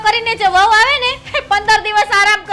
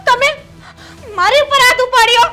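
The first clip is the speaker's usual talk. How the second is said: tearful, louder protest; hurt crying; 3 semitones higher, 3 dB louder than usual. Acted. Wife protesting to husband who slapped her, crying. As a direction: choke it out through tears.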